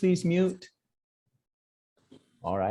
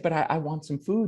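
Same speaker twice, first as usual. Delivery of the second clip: higher, bright with relief; a healed mother telling her son she feels better, in a higher voice; revived mother; 4 semitones higher, faster than usual. Acted. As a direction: sound suddenly alive and well again. Healed mother wants food.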